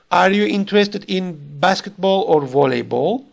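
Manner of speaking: "basketball" rising, "volleyball" falling; rise then fall. Shown as a demonstration. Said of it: "a rise on the first part, ... and the fall on the second part".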